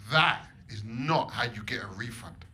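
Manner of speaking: lightly voiced prim posh friend, slow; a touch of a prim friend correcting him. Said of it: "posh friend Lily ... said".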